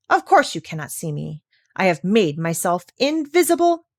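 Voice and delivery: a bluffing parrot playing the mighty doctor; lightly voiced pompous threat; parrot posing as the doctor.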